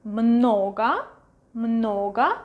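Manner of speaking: "Много" said MNO-ga with a full first O; "Много" with clear O, ending in A; O pronounced clearly. Shown as a demonstration.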